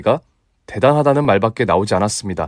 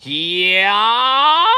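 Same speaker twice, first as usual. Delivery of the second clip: high drawn-out charging yell; long battle cry; 9 semitones higher, much slower than usual. Acted. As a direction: let out a long war cry. (길게 외치는 기합)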